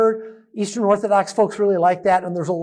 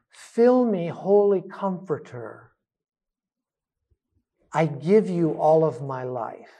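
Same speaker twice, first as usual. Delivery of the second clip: slow breath prayer; 2 semitones lower than usual. Shown as a demonstration. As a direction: let it ride slowly on the breath. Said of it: "So when we breathe in".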